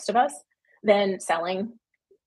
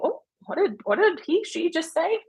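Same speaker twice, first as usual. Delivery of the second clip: high, startled "what did she just say"; shocked gasp; 9 semitones higher than usual. Retold or imitated. Readers reacting to an edgy author's remark, shocked. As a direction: play a scandalized reader, voice jumping up.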